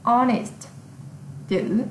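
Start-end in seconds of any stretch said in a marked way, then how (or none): 0.0-0.7 "Honest" said with no H sound; silent H. Shown as a demonstration. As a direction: begin "Honest" directly on the O vowel. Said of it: "hơ cũng bị câm".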